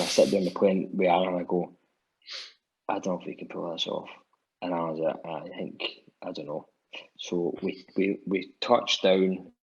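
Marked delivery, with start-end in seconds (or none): 2.9-6.7 retold quiet doubt. Storyteller recalling doubts told to Alan on the plane, quiet and uncertain. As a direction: confide the doubt softly, as if recounting it.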